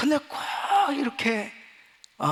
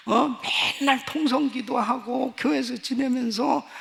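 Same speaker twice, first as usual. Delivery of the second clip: raised, urgent preacher's voice building high; impassioned preaching; 6 semitones higher, 3 dB louder than usual. Acted. Pastor to congregation, loud anguished preaching. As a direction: pour it out like a pulpit cry of despair.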